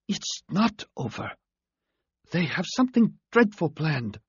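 high, thin alien voice, fading strength; a wounded alien forcing words out; dying alien voice. A narrator's reading.

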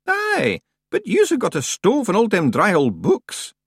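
a rustic Scot at the door; Scottish-ish stranger. A narrator's reading. Stranger Scots.

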